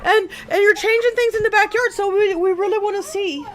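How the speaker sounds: dog voice. Retold or imitated. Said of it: "They're like".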